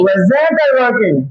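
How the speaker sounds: slow, word-by-word model for the class; slow teacher's model question; slow repeat-after-me. Shown as a demonstration. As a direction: dictate it slowly for students to echo. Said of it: "আমার সাথে বলো".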